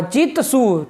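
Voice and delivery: slow, careful "चित सु" with a clear t; शुद्ध उच्चारण. Shown as a demonstration. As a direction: say "चित सु" drawn out, ending चित on an unvoiced dental t. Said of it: "इसका शुद्ध उच्चारण". (धीमे, साफ़ त के साथ "चित सु")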